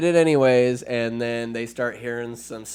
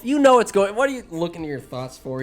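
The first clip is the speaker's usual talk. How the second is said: mock exasperated retort; 5 semitones higher, faster than usual. Wizard retorting in the retelling.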